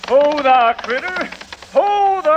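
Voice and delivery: high ho there to the horse; lightly hammed cowboy whoa; cowboy calling horse. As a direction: rein in the critter, cowboy style.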